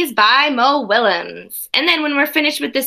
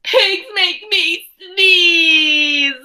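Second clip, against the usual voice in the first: mock sorrow; 4 semitones higher, much slower than usual. Gerald sorrowful to doctor.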